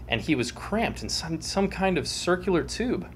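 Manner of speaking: storyteller reading with dramatic flair; dramatic story reading. A narrator's reading.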